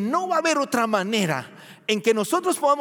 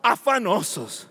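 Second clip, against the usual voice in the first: scripture reading. Shown as a demonstration. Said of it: "La Reina Valera".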